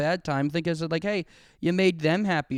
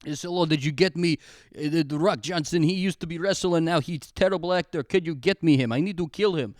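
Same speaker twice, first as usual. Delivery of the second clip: light mock Russian accent, movie bad guy; lightly played Russian villain accent giving orders. Villain ordering a hit on The Rock, light mock Russian accent. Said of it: "This is Russian".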